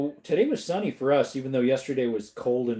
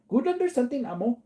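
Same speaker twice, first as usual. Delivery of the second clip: reading the garbled phrase higher, puzzled; reading a typo; 11 semitones higher, faster than usual. Shown as a demonstration. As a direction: quizzical read of "Good under something ammo". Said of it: "Is that another typo?".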